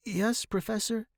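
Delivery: high, gentle prompt; attentive concern. A narrator's reading. Student to dying professor, gently attentive. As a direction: encourage him gently to continue.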